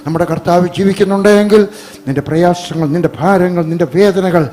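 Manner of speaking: forceful preaching. Acted. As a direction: press the comfort on them with a strong voice. Preaches comfort at full voice.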